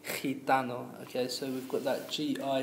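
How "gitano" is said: "Gitano" echoed as khee-TA-no; "Gitano" with a Spanish jota opening; throaty G. Shown as a demonstration. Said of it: "comes from our throat".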